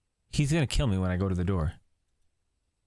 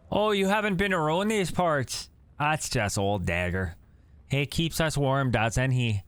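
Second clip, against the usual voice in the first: lightly voiced cheerful old man; folksy stranger, smiling; friendly old man; 6 semitones higher than usual. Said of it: "the man says with a smile".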